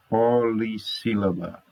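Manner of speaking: POLISSÍLABA stretched at the start, po-li-ssílaba; emphatic term. Shown as a demonstration. Teacher naming the word class polissílaba, emphatic term. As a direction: spell out polissílaba in beats. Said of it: "quatro sílabas".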